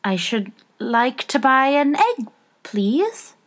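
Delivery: shy request, rising at the end; timid. A narrator's reading. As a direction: ask slowly and timidly. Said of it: "she said timidly".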